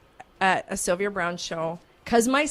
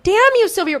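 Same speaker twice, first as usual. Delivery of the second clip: much higher, louder mock curse at Sylvia; 12 semitones higher, 7 dB louder than usual. Host cursing the psychic for banning questions, mock outrage. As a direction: shake a fist in playful frustration. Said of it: "So I'm like".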